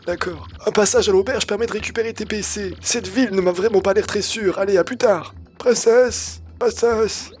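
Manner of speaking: put-on old man voice. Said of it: "Je suis vieux, tu sais".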